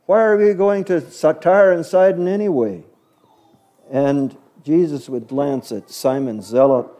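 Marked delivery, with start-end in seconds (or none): 0.0-2.8 higher-pitched mock complaint; whiny, put-upon griping; grumbling. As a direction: grumble like a fed-up traveler. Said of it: "somebody would grumble".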